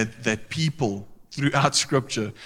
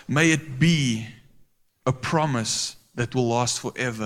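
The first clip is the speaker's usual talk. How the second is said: humble prayer. Retold or imitated. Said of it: "he carries on and he says".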